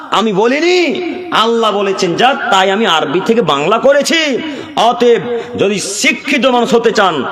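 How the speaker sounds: preacher calling out to the congregation; fiery preaching. Acted. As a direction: hammer the questions home to the crowd. Preacher rises again to full force.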